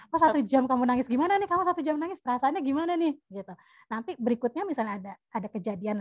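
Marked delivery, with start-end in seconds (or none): 0.1-3.1 higher-pitched parental questioning; lightly acted, lifted questioning voice; parent gently probing. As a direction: ask like a curious parent talking to a child. Voices parent questioning crying child.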